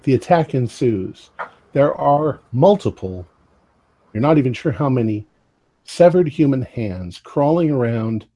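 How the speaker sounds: deliberate narration broken by pauses; game master scene setting. Acted. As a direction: lay out the attack piece by piece.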